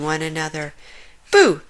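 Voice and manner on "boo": loud, higher playful shout; playful boo. A narrator's reading. Giraffe popping from behind a tree, playful boo. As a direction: jump out and shout to scare. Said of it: "shouted Leslie".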